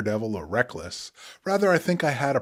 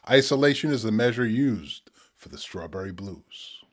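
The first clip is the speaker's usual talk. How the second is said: spoken word poetry. Acted. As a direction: let each image land, pause between. Reads his poem Strawberry Blues.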